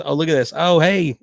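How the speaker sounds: high, loud burst of happy surprise; sudden excited greeting; delighted surprise. Real, not acted. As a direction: pipe up, pleasantly caught off guard. Spots his daughter's message live.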